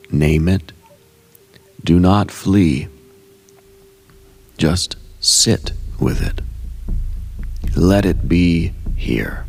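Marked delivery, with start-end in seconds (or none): 4.6-9.5 hushed whisper to the listener. Acted. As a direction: whisper it like a gentle permission. Meditation, sitting with the shadow.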